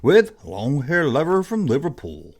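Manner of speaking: a hint of a radio countdown host; lightly voiced DJ back-announce; Casey Kasem. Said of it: "That's a very bad Casey Kasem".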